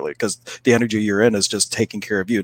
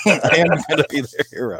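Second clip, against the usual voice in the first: mock heroic; 6 semitones higher than usual.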